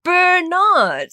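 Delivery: "Bernard" high and loud as bur-NAAD; "Bernard" overdone, long second syllable; exaggerated pronunciation. Shown as a demonstration. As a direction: stretch out "Bernard" mockingly, high. Mocking the spelling pronunciation.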